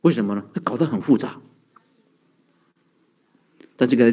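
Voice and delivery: normal talking voice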